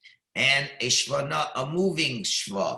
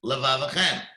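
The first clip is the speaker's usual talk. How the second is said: slow "B'chol levavchem" with space between; careful slow recitation; slow, separated; slower than usual. Shown as a demonstration. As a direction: read deliberately, keeping the lameds apart. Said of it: "the lamets are connected".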